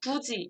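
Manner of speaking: 굳이 said with a j sound, gu-ji; palatalized 굳이, ending in "ji"; pronounced as written in sound. Shown as a demonstration. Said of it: "발음이 어떻게 되죠".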